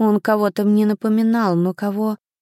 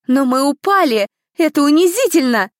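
higher, louder whining complaint; whiny protest; 6 semitones higher, 5 dB louder than usual. A narrator's reading. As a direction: whine like a humiliated girl. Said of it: "простонала одна из девушек".

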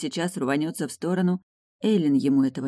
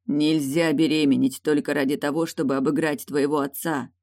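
ordinary delivery, nothing marked

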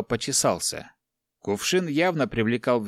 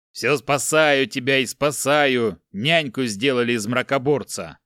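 furious giant shouting out his losses; angry outburst. Acted. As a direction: throw every reproach at him furiously. Giant rages at the monk.

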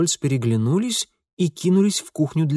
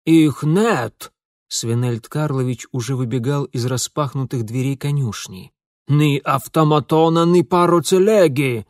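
loud, frantic cry; alarmed shout; 4 dB louder than usual. Acted. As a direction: shout it out in panic. Running out shouting.

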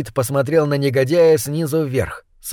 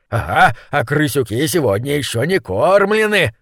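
gleeful. Acted. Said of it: "в восторге подхватил".

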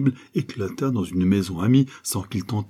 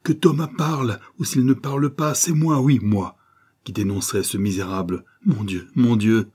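feverish exaltation; 3 semitones higher than usual. Acted. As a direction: build to a frantic vow. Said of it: "mouvement d'exaltation fiévreuse".

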